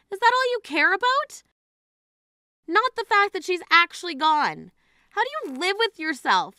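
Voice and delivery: pitched high, sharp angry outrage; furious disbelief. Acted. Sister at the funeral berates bride-to-be, outraged and high.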